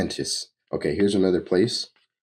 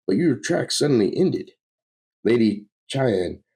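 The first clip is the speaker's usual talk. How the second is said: lilting, slightly raised formal voice; earnest storybook lady; 5 semitones higher, 3 dB louder than usual. Acted. Lady tells Lord Arion of distant worlds, earnest. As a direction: tell it with courtly wonder.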